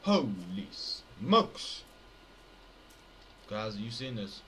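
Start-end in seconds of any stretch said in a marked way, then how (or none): 0.0-1.8 slow, loud drawn-out shock; amazed exclamation. Real, not acted. Stunned player reacting to the screen, loud and drawn out. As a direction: stretch it out in awe.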